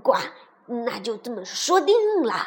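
lowish frog voice with croaks; bargaining frog. Acted. Frog sets his condition to princess, firm. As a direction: play a frog setting out terms.

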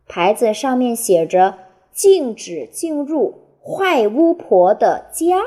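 put-on reading a picture book to children; expressive storytelling, phrase by phrase with clear pauses; 给孩子读故事. A narrator's reading. (绘声绘色地给孩子讲故事)

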